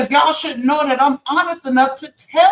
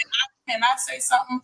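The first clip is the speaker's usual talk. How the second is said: deliberately lowered, much softer; 7 dB quieter than usual. Pretend. To the chat after being told she's yelling, pointedly soft. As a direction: pull the volume way down to prove a point. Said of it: "That sounds so much better".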